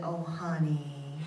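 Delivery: put-on "Oh, honey" drawn out slowly in a mild Southern accent; lightly imitating a Southern mother's slow "Oh, honey"; sweet Southern voice. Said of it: "in that great, sweet Southern voice".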